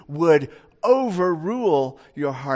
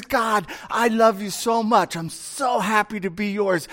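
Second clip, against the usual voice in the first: eager Abel; 3 semitones higher than usual. Acted. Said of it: "Abel comes and he says".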